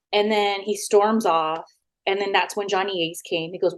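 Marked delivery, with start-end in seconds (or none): none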